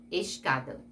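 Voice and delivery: "escada" with "es" clearly sounded, then "cada"; fully pronounced sounds. Shown as a demonstration. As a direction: articulate both the s and the c in "escada". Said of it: "Você pronuncia o S e pronunciou lá o C". ("escada" pronunciando bem o S e o C)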